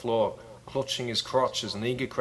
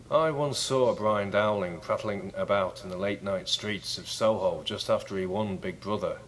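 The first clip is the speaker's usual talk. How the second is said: a singer's voice; 2 semitones lower than usual. Retold or imitated. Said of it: "I'll try and do it in a John Lennon voice".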